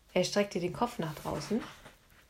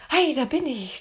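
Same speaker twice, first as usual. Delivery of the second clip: raised, higher call; 6 semitones higher, 5 dB louder than usual. A narrator's reading. Anne in the moat calls to Philipp, raised voice. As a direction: announce yourself loudly over the water.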